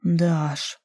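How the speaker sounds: husky, mumbled name; aroused man muttering his lover's name, hoarse. A narrator's reading. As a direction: breathe her name out hoarsely. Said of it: "сипло пробормотал Руслан".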